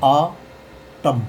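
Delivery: आ टम said as "aa ... tam", split in two; आ टम in two careful parts, opening on AA; AA sound, silent N. Shown as a demonstration. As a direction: say आ टम with a long AA and no N at the end. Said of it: "को उच्चारण करेंगे आ".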